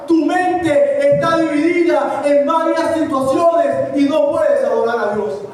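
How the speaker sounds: projected, insistent sermon delivery; preaching. Acted. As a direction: preach it out to the congregation. (prédica enérgica)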